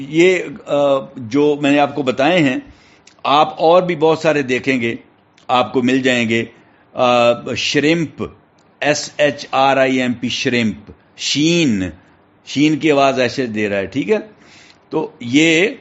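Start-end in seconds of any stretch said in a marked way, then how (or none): none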